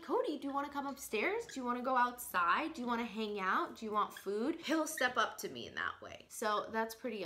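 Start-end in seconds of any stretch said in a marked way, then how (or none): 0.0-4.6 lilting questions, each rising at the end; coaxing pet talk. Acted. Bird sitter offering Cody upstairs, outside or food, coaxing. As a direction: invite the bird along, starting high.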